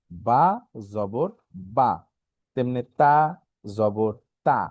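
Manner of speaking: "বা জবর বা", "তা জবর তা" with pauses and open aa endings; spelling drill. Shown as a demonstration. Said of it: "জবরের উচ্চারণ হচ্ছে বাংলায় আকারের মতো".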